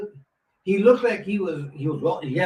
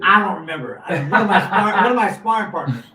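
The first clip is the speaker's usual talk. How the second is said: amused answer through real laughter; laughing; 5 dB louder than usual. Real, not acted. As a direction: laugh your way through the admission. Laughing over whom he hit.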